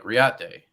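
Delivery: put-on Riate said as ree-at-DAY, no accent; plain-voiced "ree-aht-day" for Riate; unaccented mispronunciation. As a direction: say Riate with an "ay" ending, matter-of-fact. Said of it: "not, like, in an accent".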